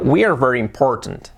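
"We are very important" run together; said quickly. Shown as a demonstration. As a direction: say "We are very important" at natural speed. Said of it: "Dicho rápido".

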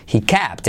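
"kept" with the E opened almost to an A; open vowel in kept. Shown as a demonstration. English teacher showing learners, "kept" with A-like E. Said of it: "esa E casi como una A".

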